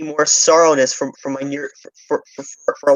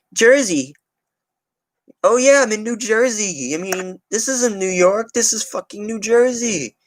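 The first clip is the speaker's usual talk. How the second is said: higher, slower sneering put-on voice; mock dismissive voice; 7 semitones higher, slower than usual. Mocking people who call Staten Island Jersey, higher sneer. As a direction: ham up a snooty New Yorker.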